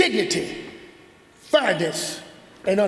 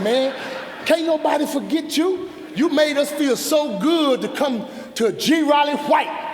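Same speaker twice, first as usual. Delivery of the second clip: excited fan; 5 semitones higher than usual. Retold or imitated. Fan praising him excitedly.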